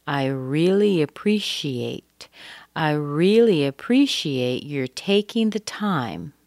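"really" slow and stressed, rising end; teacher modelling a slow sentence. Shown as a demonstration. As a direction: model the phrase slowly, hitting "really". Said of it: "it's very common to say".

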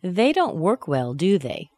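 "do they" falling, wanting agreement; falling tag, seeking agreement. Shown as a demonstration. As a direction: drop DO THEY, expecting a yes. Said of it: "I want you to agree with me".

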